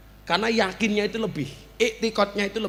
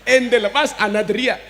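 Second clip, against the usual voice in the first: louder, higher mock Arab threat; Arab man yelling; 4 semitones higher, 6 dB louder than usual. Arab man threatening the pickpocket, loud mock yell.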